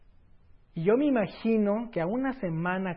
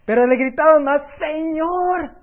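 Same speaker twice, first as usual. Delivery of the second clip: higher, louder cry of Señor; 10 semitones higher, 14 dB louder than usual. Acted. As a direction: call out like a desperate beggar. Preacher voicing the blind men's cry.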